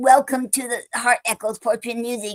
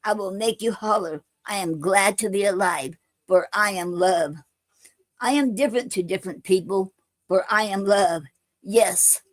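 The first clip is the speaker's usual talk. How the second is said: steady, measured poem recital with a falling refrain; poem reading. Acted. Streamer reading her own poem to viewers, measured recital. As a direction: recite it like a spoken-word piece.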